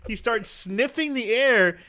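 giggling through the words; laughing. Real, not acted. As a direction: talk while laughing. Laughing while retelling.

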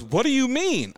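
high, puzzled mock voice; a clueless lady asking the guest; imitating the woman. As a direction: play her confusion. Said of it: "she goes".

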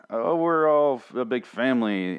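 slow, drawn-out mock sentiment; mocking gushiness. Reviewer mimicking cast's family talk, mocking gushiness. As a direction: parody a cast gushing about closeness.

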